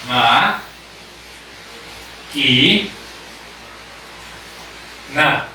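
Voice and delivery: "Ma, ki, na" with a long pause after each syllable. Shown as a demonstration. Teacher splitting a word into syllables for the class, pausing between each. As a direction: split "Ma, ki, na" into three separate beats. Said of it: "la voy a separar en sílabas".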